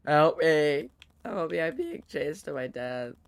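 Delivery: hammy high cry for help, laughing; overacted damsel pleading, loud; bad acting. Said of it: "I'm the worst actor".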